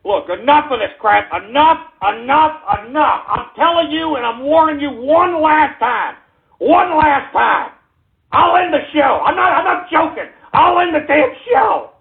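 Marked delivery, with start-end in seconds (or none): 3.3-11.9 angry warning. Real, not acted. Warning trolls, escalating.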